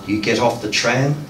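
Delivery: even, measured lines with a pause after each; unhurried, understated poetry recital; poem reading. Acted. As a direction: recite a repetitive poem calmly and deliberately. Reads poem aloud.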